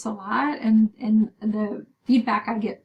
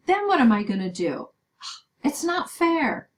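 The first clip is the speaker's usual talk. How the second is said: upset student protesting, pitch up high; a frustrated student's complaint; aggrieved student pleading over a bad grade; loud angry student; 5 semitones higher than usual. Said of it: "saying in a really loud, angry voice".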